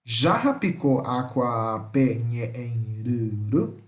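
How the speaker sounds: stretched syllables, teacher modelling pronunciation; slow pronunciation demo. Shown as a demonstration. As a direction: sound it out slowly for learners to get used to. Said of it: "Eu tô pronunciando duas vezes pra vocês se acostumarem com a pronúncia".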